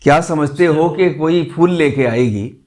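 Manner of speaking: measured mushaira verse delivery with pauses; ghazal recitation. Acted. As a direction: recite the couplet to an audience, phrase by phrase. (शायराना अंदाज़ में ग़ज़ल पढ़ना)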